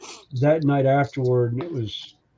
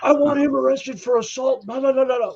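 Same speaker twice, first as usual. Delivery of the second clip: much higher, whiny mock complaint; 10 semitones higher than usual. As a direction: make the guy sound ridiculous. Mocking the guy who got choked.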